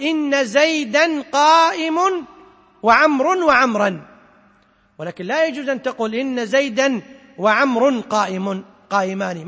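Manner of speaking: example sentence spoken slowly and deliberately; slow grammar example. Shown as a demonstration. (مثال نحوي ببطء)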